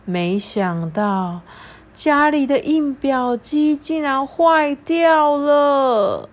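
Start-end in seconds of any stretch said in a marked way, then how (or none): 1.9-6.3 mock dismay. Printer broken, crying.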